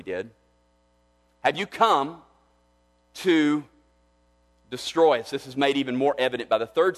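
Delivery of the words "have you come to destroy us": demon's cry. Acted. Preacher voicing the demon's cry.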